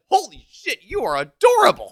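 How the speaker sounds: high, loud imitation of gushing adoration; smitten gushing. Podcaster voicing Saki taken with Nagisa, hammed-up smitten gushing. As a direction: gush it like a mock-smitten girl.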